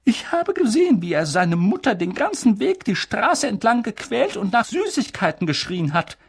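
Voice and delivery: high, loud outraged objection; indignant protest. Acted. Professor objecting to leaving Harry here, loud and outraged. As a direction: refuse it with indignation. McGonagall voiced.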